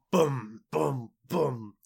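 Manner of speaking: loud, heavy booming stomps; footstep booms. Retold or imitated. Fat king stepping out, loud booming footsteps. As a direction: boom out giant footsteps.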